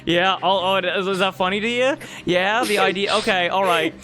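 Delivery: huffy, rising indignation; mock offended. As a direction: play wounded pride. GM feigns offence, storms off.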